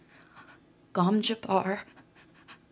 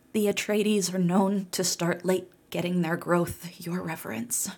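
soft contralto. Acted. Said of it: "in her soft contralto".

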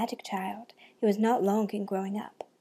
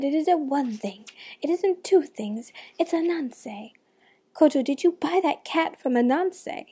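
exasperated mother; 5 semitones higher, 3 dB louder than usual. Acted. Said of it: "threw up her hands".

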